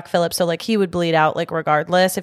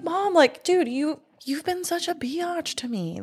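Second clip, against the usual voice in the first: high, mock whiny complaint; sassy daughter; 9 semitones higher, 5 dB quieter than usual. Host voicing Thomasin scolding her mother, high and whiny. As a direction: play the fed-up teen girl.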